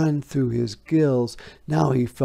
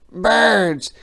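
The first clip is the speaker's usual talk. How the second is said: mysterious; 9 semitones higher, 8 dB louder than usual. A narrator's reading. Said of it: "said the frog mysteriously".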